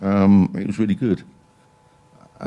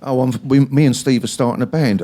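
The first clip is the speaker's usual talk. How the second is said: mock excited reply; 5 semitones higher, 6 dB louder than usual. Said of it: "voiced reply about band".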